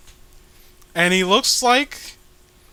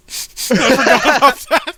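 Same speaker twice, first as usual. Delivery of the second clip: squeaky mock voice; 6 semitones higher, 9 dB louder than usual. High mock exclaiming, far voice.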